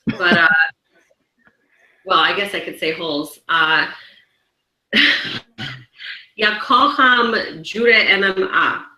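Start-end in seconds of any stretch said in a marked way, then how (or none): 6.4-8.9 slow, careful Polish phrase "ja kocham judo M M A"; slow Polish line for the camera; spoken in Polish. Shown as a demonstration. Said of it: "Give us a little, in Polish".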